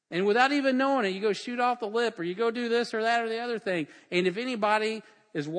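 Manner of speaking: forceful preaching. Acted. Preacher warning the church about the devil using them, forceful preaching. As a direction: press the warning home in a rising list.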